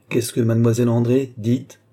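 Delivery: acted impatient questioning; insistent demand. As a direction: demand an answer at once. Rousseau repeats question, demanding an answer.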